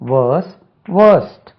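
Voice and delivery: "வேர்ஸ், வேர்ஸ்ட்" with long vowels and silent r; careful model pronunciation. Shown as a demonstration. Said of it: "இது கண்டிப்பா தெரியணும்". ("வேர்ஸ், வேர்ஸ்ட்" என்பதில் ர் ஒலிக்காமல் நீண்ட உயிரொலி)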